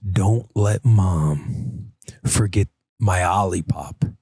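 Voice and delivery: breathy secret whisper, slow. Retold or imitated. Dad whispering a secret to his daughter, slow whisper. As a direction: hush it like a secret in her ear. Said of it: "I whispered in her ear".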